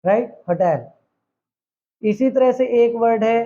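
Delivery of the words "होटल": होटल with an audible H at the start; modern sounded H. Shown as a demonstration. Teacher repeating today's pronunciation to students: होटल with H sounded. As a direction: keep the H in होटल. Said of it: "अब हम इसे pronounce करते हैं".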